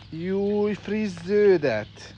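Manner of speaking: high, drawn-out cooing exclamation; high-pitched, stretched-out delight. Real, not acted. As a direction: coo in delight to a pet, slowly. Cooing over food to animals.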